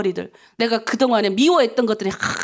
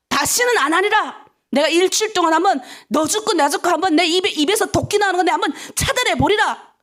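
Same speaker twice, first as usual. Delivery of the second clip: higher-pitched declaration of resolve; resolute vow; 5 semitones higher than usual. Shown as a demonstration. Preacher models vowing to stop hurtful words, resolute. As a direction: swear it off with conviction. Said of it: "내가 결단만 하면".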